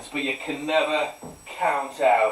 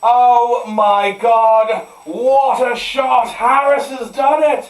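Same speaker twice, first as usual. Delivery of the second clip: high, loud sports-commentary shouting; excited commentator; 12 semitones higher, 9 dB louder than usual. Pretend. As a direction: call the winning shot like a live commentator.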